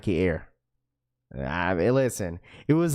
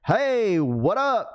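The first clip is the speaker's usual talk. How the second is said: high excited hey; 9 semitones higher, much slower than usual. Retold or imitated.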